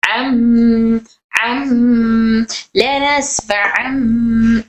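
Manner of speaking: अम with closed lips and a nasal मीम hum; correct ending. Shown as a demonstration. Teacher contrasts अम with the wrong अन. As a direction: say अम, then लनस्फअम very slowly. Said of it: "बल्कि मीम किया".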